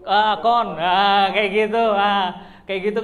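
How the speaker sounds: loud, sing-song Surabaya Javanese twang on kon; playful loud Surabaya slang demo; Surabaya accent. Shown as a demonstration. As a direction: belt out the Surabaya word kon like a local. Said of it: "orang Surabaya pakai kamu tuh apa?".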